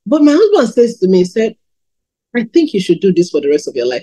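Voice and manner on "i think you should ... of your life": quick, understated, slightly lower quote; offhand suggestion, said fast and lower; very casual. Retold or imitated. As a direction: casually toss out the advice. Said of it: "He said it very casually".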